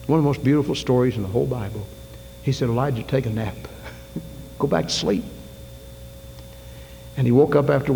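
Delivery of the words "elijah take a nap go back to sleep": softer, tender coaxing; a soft, kindly voice of God with a chuckle; gentle. Retold or imitated. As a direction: soothe him like a tired child. God gently comforting Elijah.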